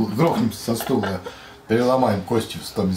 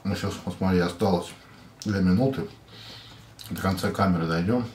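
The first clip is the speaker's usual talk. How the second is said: talking between bites; chewing while talking. Real, not acted. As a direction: mouth partly full of food. Seen 2: Man holds sandwich, put food in mouth earlier, cheeks bulge while talking.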